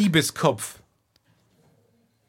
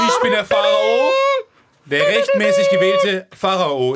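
pharaoh proclamation; 3 semitones higher, 3 dB louder than usual. Acted. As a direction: proclaim yourself to the people. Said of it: "willst du kurz üben als Pharao".

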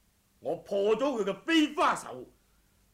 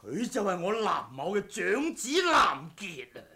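laugh, then rise to a loud proud declaration; proud reveal; 3 dB louder than usual. Acted. Father proudly reveals his son to the rival, building loud. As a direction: announce the name with pride.

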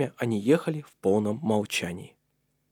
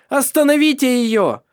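high, loud shouted order; 8 dB louder than usual. A narrator's reading. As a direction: scream for the servants to stop her. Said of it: "закричала Леонора Кристина".

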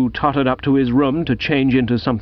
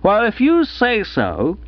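slow, high-pitched reluctant concession; doubtful; 9 semitones higher than usual. A narrator's reading. Gussie accepts the bearded bloke's assurance, doubtfully. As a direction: give way slowly, plainly unconvinced. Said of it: "said Gussie doubtfully".

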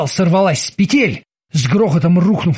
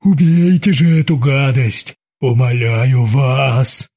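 frightened cry; 3 semitones lower, slower than usual. Acted. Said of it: "он вскричал".

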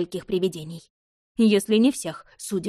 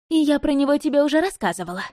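smug; 7 semitones higher, 4 dB louder, faster than usual. A narrator's reading. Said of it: "самодовольно улыбнулась Агнес".

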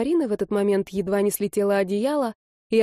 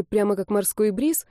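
plain reading voice

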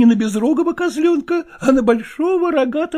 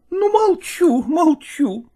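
tearful; 4 semitones higher, slower than usual. Acted. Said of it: "отирая платком свои глаза".

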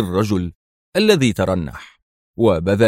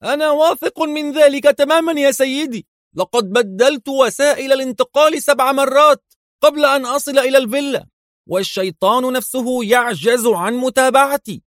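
much higher, insistent, fast cry; exclaiming. A narrator's reading. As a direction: henchman anxiously assuring his boss. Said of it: "صاح ويليام".

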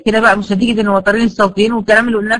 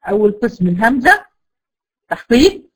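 usual speaking voice

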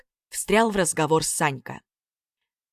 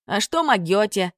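a lightly mocking echo of the trolls; передразнивая; mocking mimicry; 3 semitones higher, 3 dB louder than usual. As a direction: mimic their clumsy word back at them. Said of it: "передразнил их парнишка".

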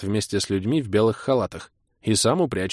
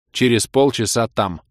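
brooking no objection; 2 semitones higher, 4 dB louder than usual. Acted. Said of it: "нетерпящим возражений голосом пробурчал я".

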